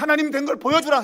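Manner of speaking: high, loud mock challenge to God; threatening demand. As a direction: imitate doubters insisting on proof. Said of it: "협박하는 거죠". (증거를 내놓으라고 윽박지르는 말투)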